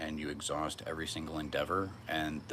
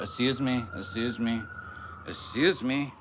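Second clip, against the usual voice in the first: mock polite voice; 6 semitones higher, 6 dB louder than usual. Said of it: "Sound like some Valley Girl bitch".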